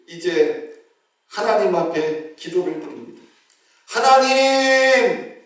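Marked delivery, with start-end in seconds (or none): 3.9-5.3 high, loud, pleading shout; desperate cry to God. Retold or imitated. Deacon hanging off a cliff shouts a prayer to God, desperate. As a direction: cry out to God with all your breath. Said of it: "이렇게 외치기 시작했어요".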